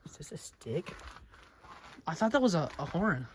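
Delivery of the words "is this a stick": hushed unvoiced whisper. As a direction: whisper it so no one hears. Sneaking in pretend adventure.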